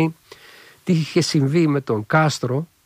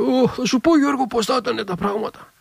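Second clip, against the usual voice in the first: sly smiling reply; 9 semitones higher than usual. Retold or imitated. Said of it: "με το πονηρό χαμογελάει και λέει".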